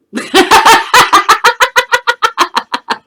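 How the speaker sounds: big, high burst of laughter; loud laugh. Real, not acted. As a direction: laugh out loud at your own joke. Laughs at own joke.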